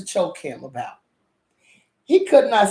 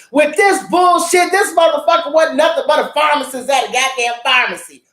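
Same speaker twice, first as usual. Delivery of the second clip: loud, higher, outraged; shouting disbelief; indignant rant; 4 semitones higher, 3 dB louder than usual. Real, not acted. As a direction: vent at the show. Ranting about the plot.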